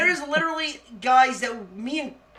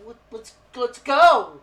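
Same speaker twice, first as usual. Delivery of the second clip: drawn-out, louder mock urging; urging someone on; 5 dB louder, slower than usual. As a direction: stretch it out, imitating a call to hurry. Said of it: "turns around and goes".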